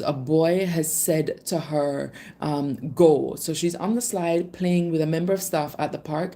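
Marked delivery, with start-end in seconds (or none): 2.9-3.4 short, loud retold order; loud, low-pitched mock shout. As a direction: imitate a boy's shouted command, low and punchy. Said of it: "he shouts really, really loud".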